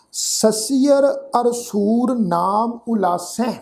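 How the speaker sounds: slow, measured recitation with pauses between phrases; scripture recitation. Shown as a demonstration. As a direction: recite each word deliberately, vowels drawn out. (ਠਹਿਰ ਠਹਿਰ ਕੇ ਗੁਰਬਾਣੀ ਪਾਠ)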